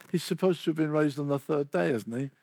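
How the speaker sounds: offhand casual reply; casually imitating an offhand answer. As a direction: toss it off casually, as common knowledge. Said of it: "I said, very casually".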